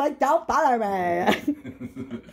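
laughing mock vocal fry; vocal fry parody. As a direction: drag the words out, bored rich girl with vocal fry. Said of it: "I don't wanna do the vocal fry".

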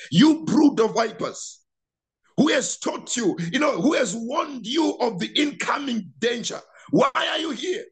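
denouncing the Pharisees at the river, rising to a cry; preacher's rebuke. Retold or imitated. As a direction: rebuke them like a fiery prophet. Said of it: "this man is shouting at them".

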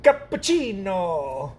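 very slow, stretched-out exclamation; excited Salt Bae. Retold or imitated. Repeating the TikTok catchphrase he loves, excited impression. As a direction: draw out each syllable in mimicked delight. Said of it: "he gets excited".

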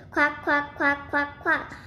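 a hint of insistent duck; duck quacks. A narrator's reading. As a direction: run of lightly voiced duck quacks. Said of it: "said a voice at the other end".

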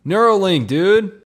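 excited shout. Real, not acted. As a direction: yell it out laughing. Gamer shouting a joke.

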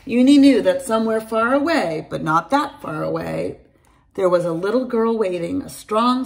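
put-on bright storytelling voice for kids; lively read-aloud for young children; story narration. A narrator's reading. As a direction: read it like a bedtime picture book. Reads a picture book aloud.

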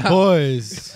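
put-on high, loud creaky old man. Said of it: "good old man voice".

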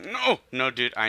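high, loud wail of protest; frustrated cry. Real, not acted. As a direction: cry out at a sudden loss. Loses a needed item in game.

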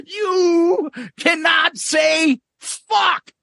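high, slow crying shout; Cosby shouting. Retold or imitated. Quoting Cosby scolding Eddie, high wailing shout. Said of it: "that fucking whole bit".

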